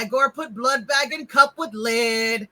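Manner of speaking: lightly voiced put-upon servant; plodding, understated henchman voice; Igor. Servant listing chores to the doctor, lightly voiced henchman. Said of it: "He says".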